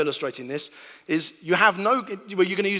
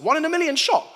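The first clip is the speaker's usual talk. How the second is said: high and loud, amazed at the odds; amazed shout; 11 semitones higher, 6 dB louder than usual. Retold or imitated. Gambler to casino, amazed by a one-in-a-million win: excited shout. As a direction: cry out in disbelief at the win.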